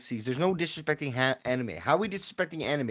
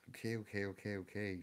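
resigned; 9 semitones lower, 14 dB quieter than usual. Real, not acted. Giving up on the search.

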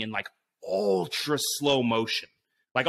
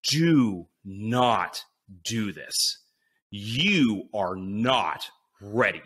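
lower, slow, stern self-talk; inner warning voice; 4 semitones lower, much slower than usual. Retold or imitated. His brain warning him off the jump, low, slow and stern. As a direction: lay the mantra down slow and heavy. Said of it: "my brain just starts going into this, like, mantra".

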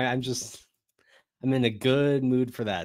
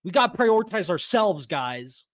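reading a chat message higher and louder; mock chat voice; 6 semitones higher, 4 dB louder than usual. Cohost reading a viewer's complaint, higher, louder, mock indignant. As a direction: read the comment like an indignant fan. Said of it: "Punish Jesus says".

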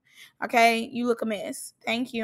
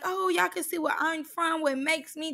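higher-pitched, lightly voiced hostess; lightly imitated rapper; 4 semitones higher, 4 dB quieter than usual. Reactor quoting a rapper to the girls, lightly put-on voice. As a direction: pitch it up as a showy host. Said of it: "So like a rapper".

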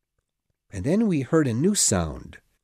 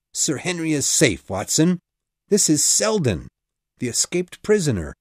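excited relief; 5 semitones higher, 4 dB louder than usual. A narrator's reading. Holmes relieved, excited discovery.

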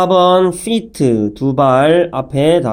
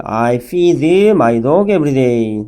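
slow, clear model sentence for pupils; slow teacher demo of the sentence; slow model reading; much slower than usual. Shown as a demonstration. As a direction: read it slowly, word by word, for learners to copy. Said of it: "teacher models the full sentence".

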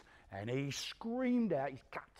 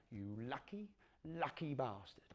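Life of Brian line; 2 semitones lower, 10 dB quieter than usual. Retold or imitated. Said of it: "that one out of The Life of Brian".

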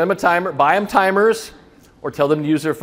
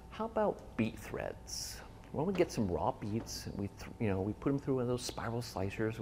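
quiet idea pitch; 6 semitones lower, 14 dB quieter than usual. Retold or imitated. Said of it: "So we quickly said".

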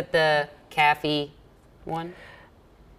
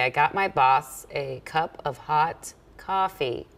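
attempting Minnesota coffee; 2 semitones lower than usual. Shown as a demonstration. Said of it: "That's close".

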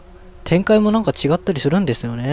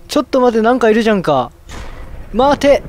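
raised, high-pitched shout of alarm; alarmed protest; 5 semitones higher, faster than usual. Real, not acted. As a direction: order the threat to wait as you spot it. Alarmed that something is there.

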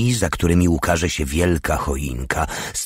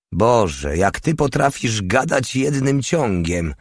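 higher-pitched jeer; mock the long-winded speech in a raised pitch; 6 semitones higher than usual. A narrator's reading. Porta jeering at the old man's endless talking, mocking. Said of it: "zadrwił Porta".

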